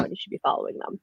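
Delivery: playful whispered aside. Real, not acted. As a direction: slip it to viewers in a hushed whisper.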